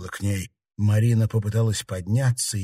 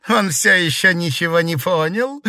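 chuckling; 8 semitones higher, 5 dB louder than usual. A narrator's reading. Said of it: "хохотнула Щергина".

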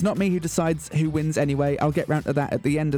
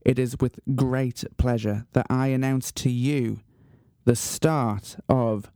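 measured, portentous radio announcer; grand announcement; 3 semitones lower than usual. Acted. Radio host unveiling his talent contest to listeners, grand announcement. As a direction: build solemnly to a big reveal.

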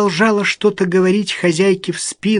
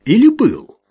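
sly; 7 semitones higher, 5 dB louder than usual. A narrator's reading. Alma catching Ruth's lie.

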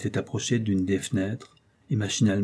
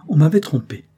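1 relieved cry; 6 semitones higher, 9 dB louder than usual. A narrator's reading. Doctor's relieved exclamation.

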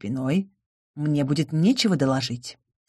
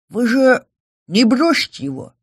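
timid; 6 semitones higher than usual. A narrator's reading. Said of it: "робко спросил".

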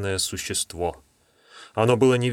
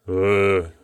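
booming low voice. Acted. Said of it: "загремел ... низкий голос".

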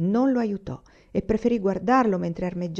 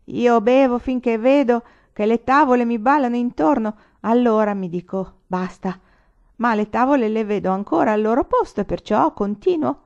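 put-on drunk lieutenant; 5 semitones higher, 7 dB louder than usual.

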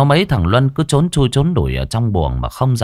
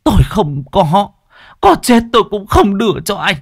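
defiant refusal; 10 semitones higher, 3 dB louder than usual. Acted. Mother defies her raging son, higher and firm. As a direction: dig in, not one coin.

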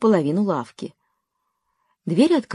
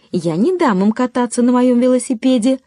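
put-on higher, louder childish protest; a boy refusing to share, yelling a bit; mild yell; 6 semitones higher, 3 dB louder than usual. A narrator's reading. Willie objecting to sharing his bicycle, mock yell. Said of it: "завопил Вилли".

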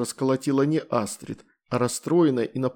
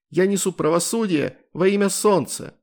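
loud, high proclamation; heroic shout; 7 semitones higher, 4 dB louder than usual. A narrator's reading. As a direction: declaim like a magical girl. Hero shouting her slogan.

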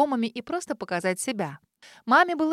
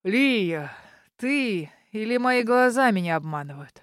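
put-on slow old man's mumble in a changed voice; mumbling old man; 3 dB louder, slower than usual. A narrator's reading. Old neighbour recognising the grandmother, mumbling old voice. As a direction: mumble it through old gums. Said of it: "Прошамкал старческий голос".

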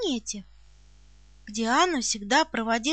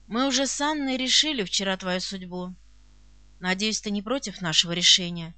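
lower, gently fatherly voice; affectionate old count; 6 semitones lower than usual. A narrator's reading. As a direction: speak low with fatherly affection. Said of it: "произнёс он своим ласковым голосом". (ласковый отеческий голос пониже)

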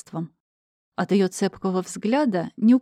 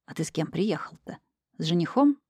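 put-on old woman whispering; 3 dB quieter than usual. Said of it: "прошептала бабка Васька".

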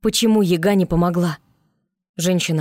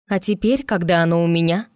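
triumphant. Acted. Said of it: "торжествующе произнесла Марьюшка".

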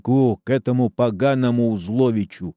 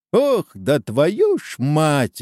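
exclaiming; 5 semitones higher, much slower than usual. A narrator's reading. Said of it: "воскликнул угадывающий".

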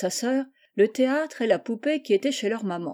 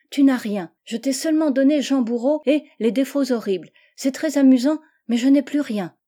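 a lightly voiced small girl, higher and eager; little girl; 4 semitones higher, 5 dB louder than usual. Anne showing Gertrude her books, higher eager child voice. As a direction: sound like a little sister proud of her gift.

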